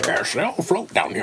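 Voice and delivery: mock Scottish film-star voice, slightly high; lightly hammed-up Scottish actor; Sean Connery. Joining the friends' bit, mock Scottish star voice. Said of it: "Let's do a Sean Connery voice".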